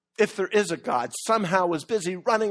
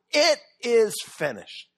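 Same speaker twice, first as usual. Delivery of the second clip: triumphant shout; 4 semitones higher than usual. Retold or imitated. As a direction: proclaim it slowly like a victory cry. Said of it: "triumphantly, victoriously ... he shouts it out".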